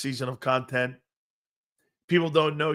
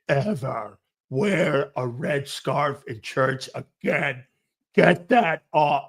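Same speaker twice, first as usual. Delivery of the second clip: stern godmother; 2 semitones lower, slower than usual. Retold or imitated. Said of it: "She's looking at me going".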